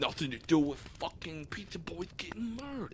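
high, soft mocking parrot of the rant; mock echo. Teasing friend parroting the rant back, mocking.

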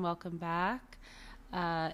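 ordinary delivery

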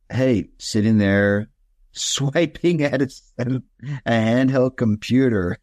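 slow amused chuckling delivery; laughing while talking. Real, not acted. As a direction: laugh through the words. Mocking phone habit, laughing.

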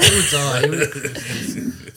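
deadpan quote. Retold or imitated. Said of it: "Just delivered deadpan".

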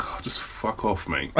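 hushed, slow, breathless whisper, as if she might overhear; whispered aside. Retold or imitated. Tired of lockdown with his girlfriend, he whispers it slowly. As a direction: let it slip out as a slow whisper under the breath.

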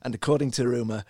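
lightly formal read-out pitch; prepared little speech. Acted. Co-host pitches his actor choice to the group, lightly formal prepared speech. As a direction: deliver it like a mock campaign speech. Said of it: "Roger's prepared these little speeches".

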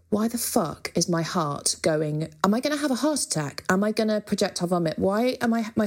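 mildly panicked, rushing inner voice; retold panic. Musician recalling her stage panic, mildly frantic. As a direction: imitate racing anxious questions, pitch jumping up midway. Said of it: "some of the panic that I used to experience".

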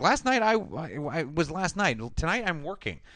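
a hint of a snippy girl; mock Carla. Recapping the show, mocking Carla's reply. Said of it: "she's like".

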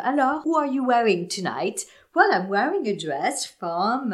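a hint of an American red carpet host, high and bright. Hosts greeting celebrities on the red carpet, lightly imitated. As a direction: play the hosts greeting stars at the Oscars. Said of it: "elles accueillaient à chaque fois".

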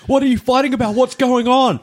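concerned bystander. Retold or imitated. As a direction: play a startled member of the public. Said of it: "You imagine going".

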